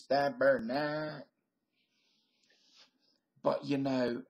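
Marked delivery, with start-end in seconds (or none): 0.0-1.3 put-on Quebec accent. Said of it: "where we hear people from Quebec speak English like this".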